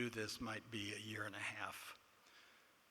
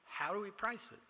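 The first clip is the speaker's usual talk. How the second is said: asked much higher, pressing hard on do; exasperated repeat; 9 semitones higher than usual. Retold or imitated. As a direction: push the question up high, impatient boss. Boss repeats question, exasperated.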